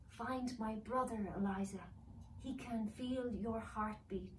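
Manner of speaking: hushed urgent instruction. Acted. Elf voice, slow.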